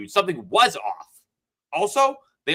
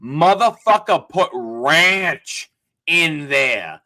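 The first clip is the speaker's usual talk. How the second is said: slow, louder indignant punchline; outraged reveal; 6 dB louder, much slower than usual. Real, not acted. Revealing the ranch to friends, slow indignant. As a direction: spit it out slowly in disbelief.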